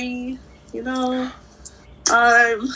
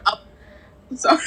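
talking between sips; words around a swallow of drink; while sipping a drink; 2 semitones higher, much faster than usual. Real, not acted. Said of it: "I'm drinking something".

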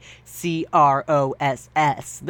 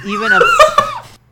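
words broken by a high laugh; 8 dB louder, slower than usual. Real, not acted. Reading fanfic aloud, cracking up mid-word.

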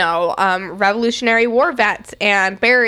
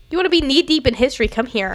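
fast, higher, pumped-up pitch; hyped sales pitch; 5 semitones higher, faster than usual. Pretend. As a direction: sell it like a carnival barker.

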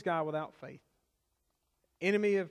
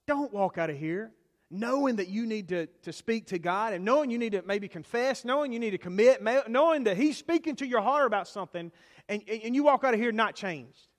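building louder and higher to a plea; urgent appeal; 3 semitones higher, 5 dB louder than usual. Real, not acted. Preacher urges the congregation not to leave unchanged, building louder. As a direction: press them harder line by line.

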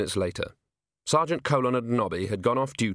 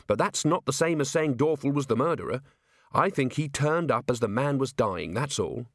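lightly voiced, reasonable young officer; a hint of patient defending; earnest officer; 4 semitones higher than usual. Officer defends the golem to his commander, earnest.

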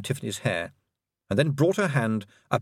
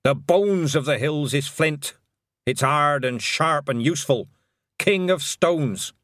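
slow, grave witch; solemn old witch; 4 semitones higher, 3 dB louder, slower than usual. Acted. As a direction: weigh each word. Granny Weatherwax voice.

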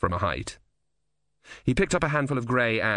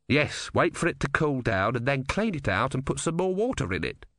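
slightly raised practical character voice, dropping at the end; lightly voiced engineer; 4 semitones higher than usual. Ern tells Simony the fix, lightly voiced engineer. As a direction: lightly play a tinkerer listing the fix.

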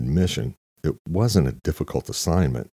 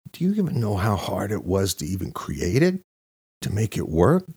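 higher, rising indignant defense; defensive outburst; 7 semitones higher than usual. A narrator's reading. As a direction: snap out of self-pity and bristle. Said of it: "snapping out of his self-pity, defending his life's work".

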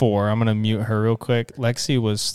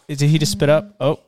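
ordinary talk

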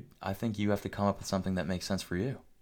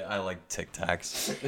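slow mock girl voice; 5 dB quieter, slower than usual. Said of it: "She say".

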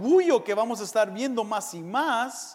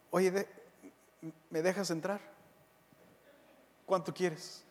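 sly bribe; 3 semitones lower, 10 dB quieter than usual. Retold or imitated. Bribing at heaven's gate.

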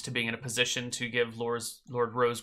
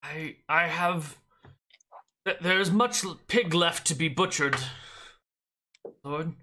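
put-on higher, halting old servant; stammering elderly butler; 4 semitones higher than usual. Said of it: "you've only got one butler voice".

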